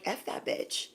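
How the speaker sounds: breathy whispered swear under the breath; whispered curse. Retold or imitated. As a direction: hiss it out unvoiced. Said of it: "just yelling and being like".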